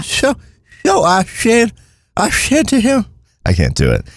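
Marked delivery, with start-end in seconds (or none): 0.0-3.0 "Sure" with a whistling S, pitched high; whistled S. Retold or imitated. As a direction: whistle on every S like the local guy. Doing the S whistle.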